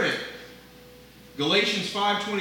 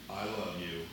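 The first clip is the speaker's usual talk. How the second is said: soft I love you; 11 semitones lower, 11 dB quieter than usual. Shown as a demonstration. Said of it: "I can say".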